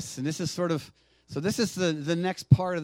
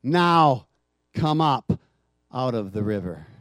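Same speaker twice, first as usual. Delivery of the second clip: commanding call; 5 semitones lower, 5 dB louder, slower than usual. Acted. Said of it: "He's going to say".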